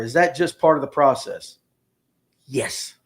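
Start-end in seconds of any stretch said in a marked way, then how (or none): 2.5-2.9 whispered yes, barely voiced. Real, not acted. Whispered yes about being afraid of his wife. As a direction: breathe it like a secret.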